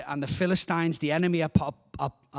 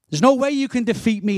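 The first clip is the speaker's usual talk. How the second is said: higher-pitched scornful boast; ridiculing taunt; 4 semitones higher, 4 dB louder than usual. Acted. Goliath ridicules the army and their God, taunting. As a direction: taunt them with total confidence. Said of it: "not only is he ridiculing them".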